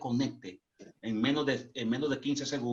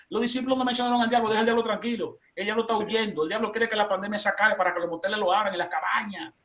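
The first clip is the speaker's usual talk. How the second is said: excited preaching; 7 semitones higher, faster than usual. Retold or imitated. Preaching scene, mocking believers.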